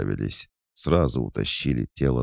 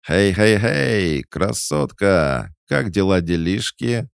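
high, loud, drawn-out call; rowdy creature hailing; 9 semitones higher, 6 dB louder, slower than usual. Acted. Mystery creature running up to a beauty, brash. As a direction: holler a cheeky hello while approaching. Strange creature runs up calling out.

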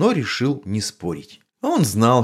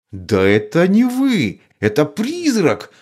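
slow, higher, louder outburst; exasperated shout; 9 semitones higher, 4 dB louder, slower than usual. A narrator's reading. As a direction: at the end of her rope, she yells. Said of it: "закричала выведенная из себя Матильда".

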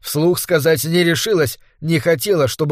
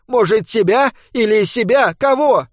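flaring up; 7 semitones higher than usual. A narrator's reading. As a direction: throw the question back angrily. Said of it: "вспыхнула Ольга".

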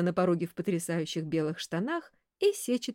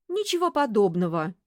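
offended, louder retort; 3 semitones higher, 6 dB louder than usual. Acted. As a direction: snap back offended. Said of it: "оскорбилась Василиса".

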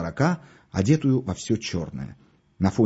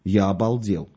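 ordinary delivery, nothing marked

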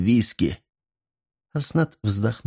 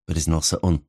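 usual speaking voice

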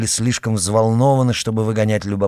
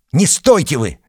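higher, louder command; urgent order; 6 semitones higher, 6 dB louder than usual. A narrator's reading. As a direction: snap at him to help. Murin ordering Arkady to help.

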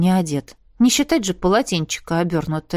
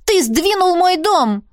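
higher, slow, hammered accusation; angry accusation; 9 semitones higher, 4 dB louder, slower than usual. Acted. Arnella accusing Roderick of moving her house, higher and slow. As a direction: nail him with each word.

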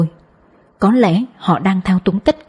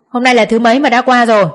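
shouting down; 4 semitones higher than usual. A narrator's reading. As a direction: bark it down from the balcony. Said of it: "quát vọng xuống".

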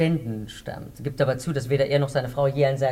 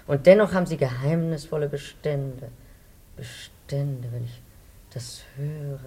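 suspicious; 5 dB quieter than usual. Acted. Suspicious housewife fading to whisper.

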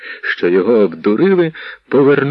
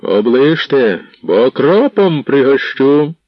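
louder threatening growl, slowed; menacing roar; 4 semitones higher, 4 dB louder, slower than usual. Acted. Defender behind the gate threatening the attackers, angry shout. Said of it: "Чийсь грізний голос гримнув".

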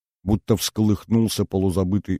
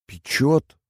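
пропищала; 8 semitones higher than usual. A narrator's reading. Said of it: "пропищала Инна".

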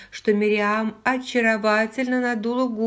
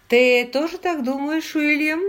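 high, raised-voice question; louder and higher, prodding someone who missed it; pointedly loud; 8 semitones higher, 5 dB louder than usual. A narrator's reading. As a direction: ask it loudly, demanding attention. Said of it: "произнёс отец достаточно громко, давая понять".

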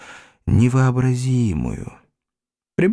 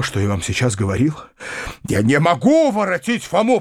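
rushed then rising higher; anguished pleading; 7 semitones higher than usual. A narrator's reading. Uncle pleading with his mother, anguished. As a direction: plead hard, with rising heat. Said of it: "горестно вскричал дядя".

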